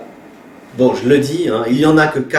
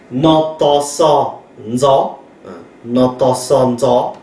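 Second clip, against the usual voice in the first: slow spelling; slower than usual. Shown as a demonstration. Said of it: "teacher spells consonant aloud".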